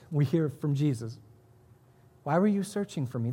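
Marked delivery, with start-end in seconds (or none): 2.2-3.3 gently puzzled question; mild, guileless query; without malice. Acted. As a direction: ask it innocently, with no blame. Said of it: "There was no malice in it".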